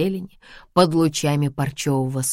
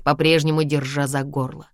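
usual speaking voice

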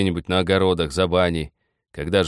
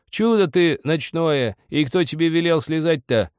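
put-on old woman shouting; 10 semitones higher, 4 dB louder than usual. A narrator's reading. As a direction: berate him in a high raised voice. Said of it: "кричала во тьме старуха".

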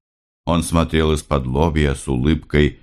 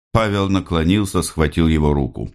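usual speaking voice

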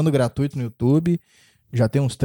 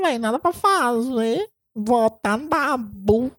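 high, slow, drawn-out reality-show voice; Ive impression; 11 semitones higher, slower than usual. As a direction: do a high whiny reality-star rant. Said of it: "Ive, Ive do Big Brother".

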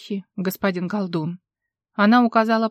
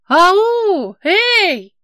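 high, loud call from afar; faraway shout through the woods; distant call; 10 semitones higher, 8 dB louder than usual. Acted. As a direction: hail someone through the trees. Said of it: "донеслось откуда-то из-за деревьев".

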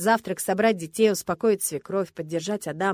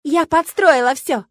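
very loud, high, drawn-out cry; shouted confession; 8 semitones higher, 11 dB louder, slower than usual. A narrator's reading. Milena admits setting it all up, shouting. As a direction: yell it out, stretching each word. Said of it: "выкрикнула она".

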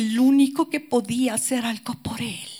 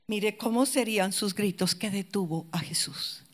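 ordinary talk

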